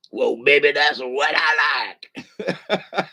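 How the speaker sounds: hammy hook dissolving into laughs; laughing rock-and-roll singer's hook. Pretend. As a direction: belt it and crack up.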